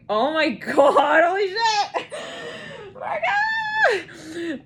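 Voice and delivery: very high, slow cry of awe; overwhelmed. Real, not acted. A reader overwhelmed by the feeling, high drawn-out cry. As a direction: let it burst out, stretched and high. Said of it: "I feel this".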